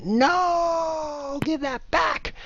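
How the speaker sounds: high, wailing no and give that back; anguished cry. Real, not acted. Streamer losing his free piece to Damon, high wailing cry. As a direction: cry out as the piece is snatched away.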